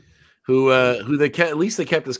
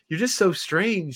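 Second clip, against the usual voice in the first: woman's voice; 7 semitones higher, slower than usual. Retold or imitated. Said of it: "this one woman goes".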